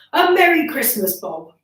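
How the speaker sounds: mean every word of it; earnest greeting. Acted. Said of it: "with an earnestness that could not be mistaken".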